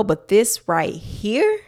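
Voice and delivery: slow, lightly done Cat Williams. Retold or imitated. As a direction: drawl it a little like Cat Williams. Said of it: "in my Cat Williams voice".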